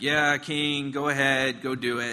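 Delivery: put-on mocking tone. Explaining a Bible passage, voicing a man speaking to the king: acting out a mocking tone. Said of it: "he's kind of mocking him there".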